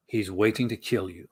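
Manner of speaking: low, lurid trailer read; a hint of trailer narrator growl; movie trailer voice. Shown as a demonstration. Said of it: "movie trailer guy voice".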